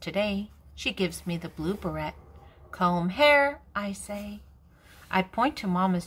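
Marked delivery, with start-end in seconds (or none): 2.7-3.6 put-on child voice. Child voice in read story.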